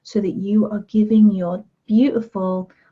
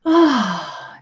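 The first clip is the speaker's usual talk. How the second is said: open-mouth breath; 3 semitones higher than usual. Shown as a demonstration. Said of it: "Let your mouth open".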